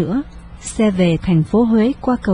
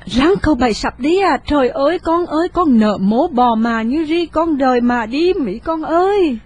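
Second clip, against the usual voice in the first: panicked grief; 6 semitones higher than usual. A narrator's reading. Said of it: "Cụ bà hoảng hốt hoảng trời hỏi".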